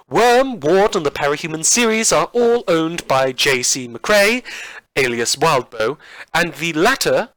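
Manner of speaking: lightly campy outro announcer voice; hammy podcast credits read. Acted. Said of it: "this ridiculous campy tone".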